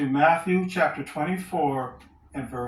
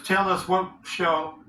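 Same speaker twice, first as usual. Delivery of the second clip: deliberate verse reading, left hanging at the end; scripture reading aloud; 3 semitones higher than usual. Acted. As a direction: read it out and leave the last phrase open.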